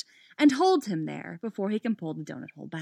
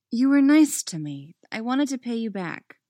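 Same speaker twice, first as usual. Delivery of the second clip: higher, frustrated insistence; loud burst of frustration, then easing; 5 semitones higher, 5 dB louder than usual. A narrator's reading. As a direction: explain yourself in exasperation. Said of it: "looking frustrated".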